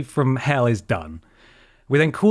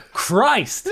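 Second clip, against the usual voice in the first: high pleading whine on please; exasperated plea; 12 semitones higher than usual. Retold or imitated. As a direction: beg the universe, fed up. Exasperated at police raid.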